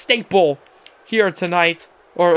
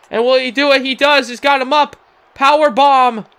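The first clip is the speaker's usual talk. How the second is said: excited; 4 semitones higher, 4 dB louder than usual. Acted. Big move lands in match.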